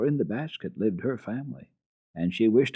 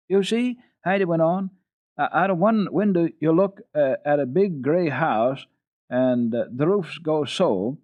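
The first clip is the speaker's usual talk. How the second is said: louder, higher eager explaining; eager child; 8 semitones higher, 7 dB louder than usual. Acted. Heidi describing the house to the boy, eager. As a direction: help him picture it.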